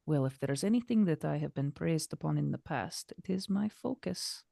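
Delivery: lightly voiced poised game heroine; soft, measured character line; Katarina. Katarina brushing closely past Sterling, softly in character.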